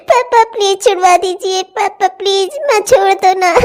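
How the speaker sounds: put-on girl pleading to father in tears; tearful plea. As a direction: beg her father to save her. Girl begs father, crying.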